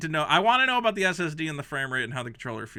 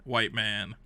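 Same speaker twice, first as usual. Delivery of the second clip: slow savoring; 5 semitones lower, much slower than usual. Real, not acted. Mocking the funny sentence, slow and savoring. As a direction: linger on every word. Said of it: "that's a funny sentence".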